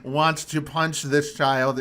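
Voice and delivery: loud, high, drawn-out curse; exasperated outburst. Real, not acted. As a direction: blurt it out loud in real exasperation. Exasperated outburst about hated character.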